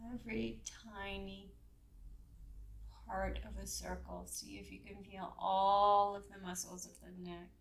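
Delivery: measured yoga-class guidance with long pauses; guided yoga instruction. Real, not acted. Leads a gentle yoga warm-up.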